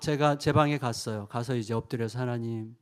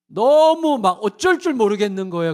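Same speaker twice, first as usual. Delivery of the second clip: much higher and louder, bursting with longing; overwhelmed outburst; 9 semitones higher, 12 dB louder than usual. Real, not acted. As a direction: cry out, not knowing what to do.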